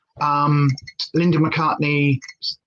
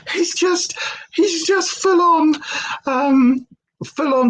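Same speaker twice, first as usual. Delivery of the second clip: whisper; 11 semitones higher, slower than usual. Real, not acted. Whispered aside about puppy.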